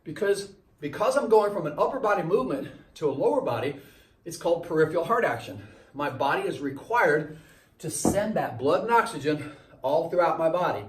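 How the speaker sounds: slightly out of breath; a little winded. Real, not acted. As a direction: talk while a bit winded from exercise. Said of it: "I'm a little bit winded".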